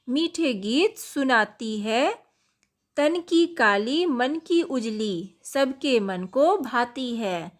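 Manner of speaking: put-on slow, sing-song recital of a children's rhyme; poem recitation. Shown as a demonstration. Teacher reciting the koel poem to pupils, slow and sing-song. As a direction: recite it slowly with a lilt.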